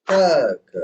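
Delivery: "Ta" thrown out loud and high, "ka" lighter; energy on TA. Shown as a demonstration. Teacher restarts the loop for student, energetic accent on "Ta". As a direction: put all the energy on "Ta". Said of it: "whole energy has to be shown on that ta".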